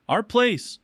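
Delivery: high, loud imitation of her enthusiasm; mock excited exclamation. Girlfriend claiming his condo as theirs, mock excited. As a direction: chirp it high, mimicking the girlfriend.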